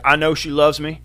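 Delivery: lightly voiced insistent hillbilly; imitated hillbilly. Old man insisting on his prison girlfriend's love, mock hillbilly. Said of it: "old hillbilly white dude".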